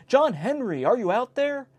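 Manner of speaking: a mother calling her son from the roof. A narrator's reading. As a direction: shout up to find the boy. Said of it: "and cried".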